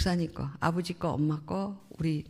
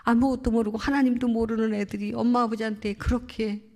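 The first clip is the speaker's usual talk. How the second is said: higher, louder impassioned self-blame, re-enacted; retold anguished confession; 5 semitones higher, 4 dB louder than usual. Son blaming himself for the others' behaviour, retold anguish. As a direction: press through his confession with imitated anguish.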